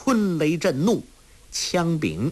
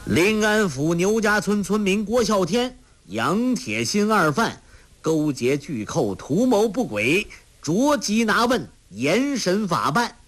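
high, declaiming official proclamation; reading aloud loudly; 8 semitones higher than usual. A narrator's reading. Officer reading the arrest order to them, loud declaiming. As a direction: read the warrant out like a herald. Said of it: "大声读道".

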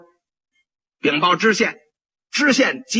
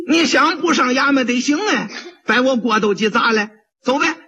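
higher mock scolding; 6 semitones higher than usual. Vendor drags him to court.

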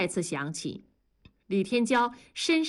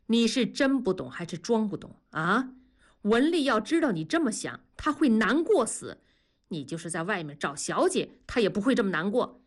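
earnest. Acted. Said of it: "非常认真地说".

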